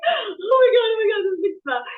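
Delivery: high, loud re-enacted amazement; retold astonishment. Retelling the moment by the husband at the counter, astonished. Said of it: "was like".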